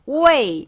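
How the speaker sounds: 오에이 run together as "wei"; 오에이 blended into one glide; said fast. Shown as a demonstration. Teacher showing how it sounds quickly, said fast. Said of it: "빨리 하면 어떻게 들려요?".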